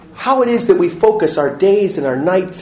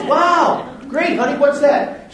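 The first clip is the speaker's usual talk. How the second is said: a hint of an eager husband, pitched higher; mock-excited and curious, higher up; 7 semitones higher than usual. Preacher voicing Lou Holtz answering his wife, mildly eager and higher. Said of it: "And he goes".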